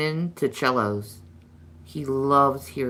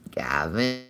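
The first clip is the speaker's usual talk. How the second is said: unvoiced warning whisper of his name; 8 semitones lower than usual. Real, not acted. Owner whispering a warning to her bird. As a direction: hush him with a whispered name.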